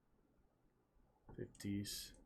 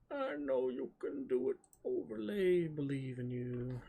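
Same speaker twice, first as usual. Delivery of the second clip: coaxing; 3 semitones higher than usual. Pretend. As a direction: coax it like a pet. Coaxing the overlay to work.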